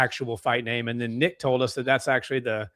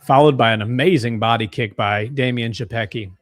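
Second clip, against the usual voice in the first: excited commentary; 7 dB louder than usual. Real, not acted. Live fight play-by-play.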